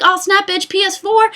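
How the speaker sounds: high, excited one-upping boast; cocky hyped comeback. Acted. Playing Sony answering its rival, excited. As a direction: throw it out like a triumphant reply. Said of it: "then Sony would have been like".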